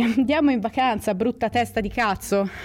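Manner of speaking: a hint of a nagging inner voice; brain voice. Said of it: "Questo è il cervello che dice".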